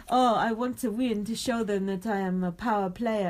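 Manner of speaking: attempted French accent, lightly put on. Podcaster quoting William's boast, light French accent. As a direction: imitate a French housemate with a loose French accent. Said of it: "I like your French accent".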